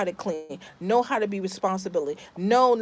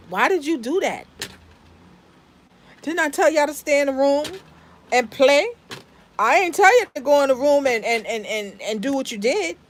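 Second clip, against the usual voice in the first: half-acted scolding of the kids for leaving the room; retold mom scolding; 2 semitones higher than usual. Mother telling the kids off, mock exasperated scolding. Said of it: "That's how she react".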